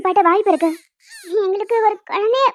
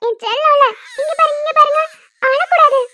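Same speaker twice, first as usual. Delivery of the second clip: put-on high-pitched pleading with a baby; urgent, affectionate cooing; coaxing baby talk; 6 semitones higher than usual. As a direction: get a wailing baby's attention.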